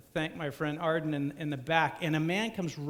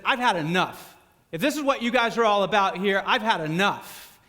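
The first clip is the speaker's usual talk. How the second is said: fed up; 2 semitones higher, 5 dB louder than usual. Retold or imitated. Angry heckler leaving.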